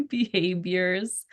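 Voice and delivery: Behaviors with a b for the v, slow and laughing; Filipino accent. Retold or imitated. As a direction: Behaviors said slowly in a Filipino accent, pronounced "behabiors". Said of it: "That's my Filipino accent".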